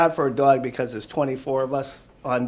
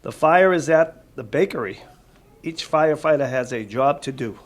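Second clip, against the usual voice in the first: clear, lively storybook read-aloud, louder; reading to children; 2 semitones higher, 6 dB louder than usual. Acted. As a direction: read it out to the kids with energy.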